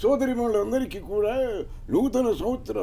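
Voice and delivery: put-on orate like the old film star turned leader addressing the nation; grand public address with long pauses; NT Rama Rao impression. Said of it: "రామారావు గారు new year చెప్తే ఎలా ఉంటుందో ఒకసారి చెప్తాం".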